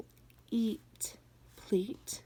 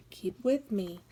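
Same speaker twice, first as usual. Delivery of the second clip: whisper. Real, not acted. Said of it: "whispered aside to class".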